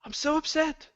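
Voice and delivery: high wounded murmur; Sam voice, deflated. Acted. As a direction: whimper it like crushed Sam. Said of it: "there's gonna be no more Sam voice".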